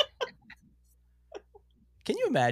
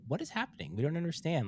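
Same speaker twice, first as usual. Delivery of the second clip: mildly baffled, pitched up; bewildered; 7 semitones higher than usual. Retold or imitated. Man quoting his and his wife's reaction to the kids, bewildered. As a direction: voice a puzzled reaction, higher than usual.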